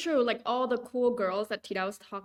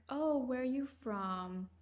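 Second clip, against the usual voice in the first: whispered retold question; 2 semitones higher, 6 dB quieter, slower than usual. Seller's question retold in story.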